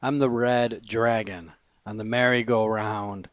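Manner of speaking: emphatic, measured poem recitation; poetry reading. Acted. Poet reads a poem to listeners, emphatic recitation. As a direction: punch the key words and pause between lines.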